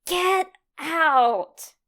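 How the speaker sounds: loud teasing exclamation; loud get out. Acted. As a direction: shove him off with a yell. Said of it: "a loud".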